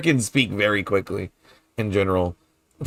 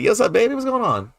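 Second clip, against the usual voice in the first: put-on bright, much higher New Orleans "what's up, baby"; New Orleans greeting; 10 semitones higher, faster than usual. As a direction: greet them New Orleans style, pitched way up. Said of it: "We call everybody baby as well".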